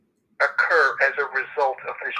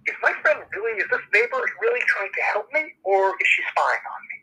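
a hint of an anxious parent, pitched higher; worried parent's inner voice; 5 semitones higher than usual. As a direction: lightly voice a parent doubting the friend. Worried parent wondering aloud.

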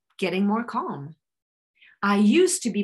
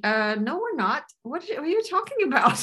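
higher-pitched incredulous objection; acted scoffing, rising high; mock disbelief; 6 semitones higher than usual. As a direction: play a brain balking at the idea. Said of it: "Their brain is gonna be".

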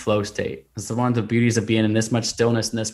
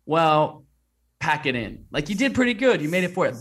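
lightly voiced coaxing, much higher; mock gentle quitter voice; 6 semitones higher than usual. An imagined inner voice urging him to give up, mock coaxing. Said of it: "the intuitive voice in that moment didn't say".

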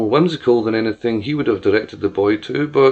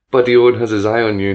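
bright, loud gloating cheer; 5 dB louder, faster than usual. Acted. George grinning excitedly, cheering at the doctor, loud. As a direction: crow it out in triumph. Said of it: "he cheered".

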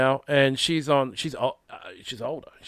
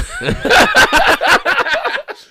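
loud burst of laughter; 11 dB louder than usual. Real, not acted. Laughing at the quote.

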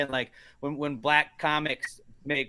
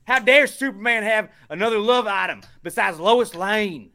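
slow, high, loud mock Southern outrage; Southern accent; 8 semitones higher, 6 dB louder than usual. Mocking objectors to Superman's love life, Southern accent. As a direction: draw out the indignant Southern accent. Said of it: "I always go with the Southern accent".

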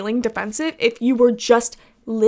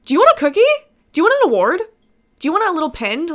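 sneering, rising mock questions, louder on want; sarcastic mock offer; 5 semitones higher, 5 dB louder, much faster than usual. Mocking a male commenter who wants credit, sarcastic and loud. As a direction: taunt him like a child begging for praise.

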